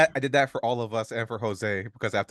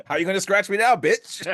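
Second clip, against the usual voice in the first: higher, louder laughing taunt; mocking taunt; 8 semitones higher, 5 dB louder than usual. A big strong foe mocking Wolverine, higher and laughing. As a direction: sneer at him through a laugh. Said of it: "It's like".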